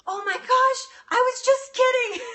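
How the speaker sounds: a mom scrambling to undo a joke; panicked backpedal. Retold or imitated. Mom taking it back as her daughter cries, high and alarmed. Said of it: "her mom was like".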